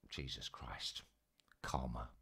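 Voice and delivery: breathy whisper, drained and shaken; whispered relief. Retold or imitated. Walking in to his mate, whispering in exhausted relief. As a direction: breathe it out like you barely escaped.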